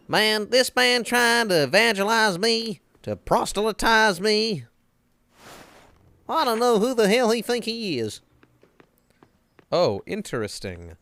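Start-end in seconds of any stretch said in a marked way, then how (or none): 0.1-8.2 indignant rant. Real, not acted. Mocking rant about the priest.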